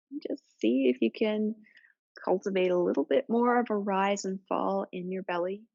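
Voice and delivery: calm, even yoga-teacher voice with long pauses; settled, level meditation cueing; guided relaxation. Real, not acted. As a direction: gently guide them into their breath, unhurried. Leads breathing relaxation.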